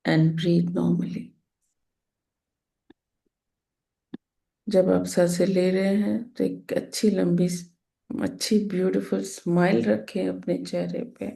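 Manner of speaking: calm instructions with long pauses between phrases; guided meditation. Real, not acted. Teacher telling everyone to close eyes and breathe, guided meditation. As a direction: ease them gently into stillness, unhurried.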